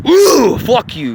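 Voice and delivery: a sudden high "Ooh" into a snapped curse; mock snap. Telling off someone in a quick temper, mock snap. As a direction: flare up like a quick-tempered Aries. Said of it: "I'm a little more like".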